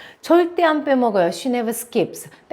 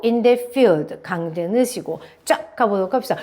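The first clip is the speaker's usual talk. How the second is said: in the field with field stressed; 2 semitones lower than usual. Shown as a demonstration. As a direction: lean on field in the phrase.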